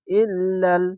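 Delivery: ইল্লাল recited with a held doubled ল; Quranic recitation. Shown as a demonstration. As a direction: chant ইল্লাল slowly, tajweed style. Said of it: "Hamza লামজের ইল".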